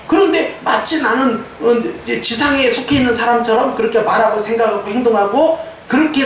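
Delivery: animated, emphatic sermon delivery; preaching. Real, not acted. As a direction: drive the victory home to the congregation. Exhorts congregation.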